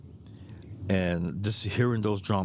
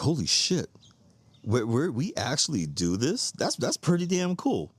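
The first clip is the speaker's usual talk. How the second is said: retold amazement; 5 semitones higher than usual.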